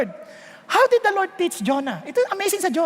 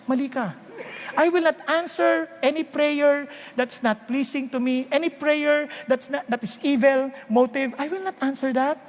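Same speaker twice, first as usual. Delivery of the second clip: firm God; 3 semitones lower than usual. Retold or imitated. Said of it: "sabi ng Lord".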